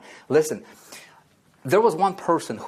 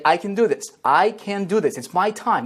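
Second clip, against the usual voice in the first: louder, higher affirmation, full conviction; said like you mean it; 5 semitones higher, 3 dB louder than usual. Shown as a demonstration. Coach modelling the affirmation for viewers, loud and fired up. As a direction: chant it like a pep rally mantra. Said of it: "Say it like you mean it".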